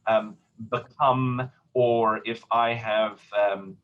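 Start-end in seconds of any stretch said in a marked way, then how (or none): 0.7-1.5 become with weight on the second syllable, beCOME; second-syllable stress. Shown as a demonstration. Teacher gives an English example of stress, become stressed on second syllable. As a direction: lean on the COME of become. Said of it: "second syllable ... takes the stress".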